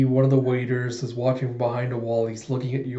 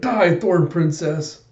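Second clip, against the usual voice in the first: higher, drawn-out attacker's cry; mock battle cry; 4 semitones higher, 3 dB louder, much slower than usual. Attacker runs up with a knife, mock battle cry. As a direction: draw out the threat as you charge.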